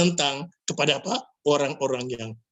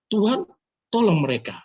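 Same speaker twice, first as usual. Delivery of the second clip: prayer; 5 semitones higher, 5 dB louder than usual. Retold or imitated. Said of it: "saya mendoakan kepada Tuhan".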